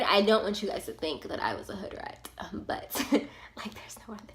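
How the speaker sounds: real whisper with a laugh, half-embarrassed; whispered aside. Real, not acted. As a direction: lean in and whisper it to the audience.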